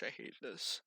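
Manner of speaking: low annoyed mutter to herself; muttered under breath. Real, not acted. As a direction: grumble it quietly, not for the audience. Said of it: "Hopefully you didn't hear that".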